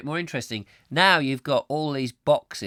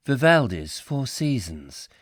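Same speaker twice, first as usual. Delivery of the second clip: lightly mimicked, slow announcement; smart speaker reply; 3 dB louder, slower than usual. Alexa announces the classical piece, in a slow imitated reply. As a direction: read it back slowly like an assistant. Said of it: "it'll go".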